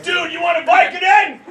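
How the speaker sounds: lightly voiced cool neighbor; easygoing bro, a bit loud; laid-back neighbor. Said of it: "He's like".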